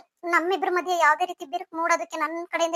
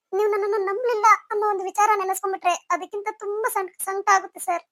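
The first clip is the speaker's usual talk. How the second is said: crying; 4 semitones higher than usual. Acted. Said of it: "ಅಳ್ಬೇಡ please".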